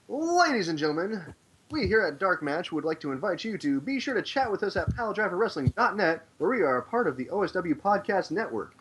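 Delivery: booming ring announcer voice; fighting game announcer. Acted. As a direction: announce it like a big fight night. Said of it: "I love your announcer voice".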